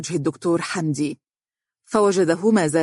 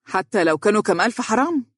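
higher, mildly mocking question; sarcastic; 5 semitones higher than usual. Lawyer answering colleague's talk of money, sarcastic. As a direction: toss it back with a touch of sarcasm. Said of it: "ابتسم ساخرا وهو يقول".

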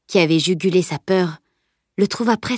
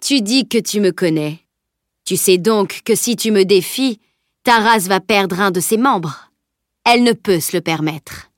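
deadly menace. Acted. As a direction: warn with cold menace. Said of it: "porteuse d'une mortelle menace".

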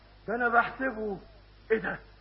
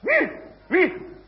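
high, loud startled cries; startled calling out; 11 semitones higher, 10 dB louder, faster than usual. Acted. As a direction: call out into the dark, alarmed. Homeowner woken, calling out in fear.

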